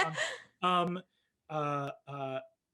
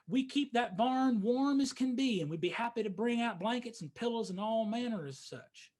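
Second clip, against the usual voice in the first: higher, lightly voiced folksy possum; possum host; 5 semitones higher than usual. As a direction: hospitable possum farmer, mildly eager. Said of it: "this possum looks at you and says".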